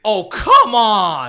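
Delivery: slow, loud exasperated groan; fed-up viewer scoffing at the screen. Retold or imitated. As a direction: drag it out in disbelief. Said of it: "I was like".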